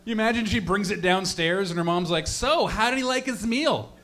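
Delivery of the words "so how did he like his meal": higher, chirpy mock-mom question; a hint of a hostess mom; lightly voiced mom. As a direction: ask it like an unsuspecting mother. Imagined mom asking her daughter.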